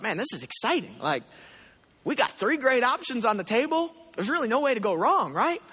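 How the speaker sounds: mildly excited musing; excited inner voice. Retold or imitated. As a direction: replay the thrill of three good options. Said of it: "I'm just getting really excited about this".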